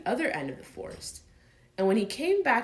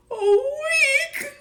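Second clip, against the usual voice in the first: gloomy; 9 dB louder than usual. Acted. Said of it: "said Pooh gloomily".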